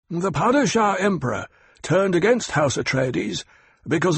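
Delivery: Hawat, sharp and knowing. Acted. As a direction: lay out the facts to corner him. Hawat explains.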